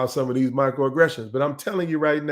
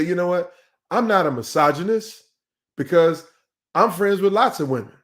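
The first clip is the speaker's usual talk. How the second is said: mildly acted protest, pitched a bit higher; defensive denial; 4 semitones higher than usual. Speaker mimics people who deny being misogynists, mildly defensive. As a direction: play someone excusing themselves, lightly.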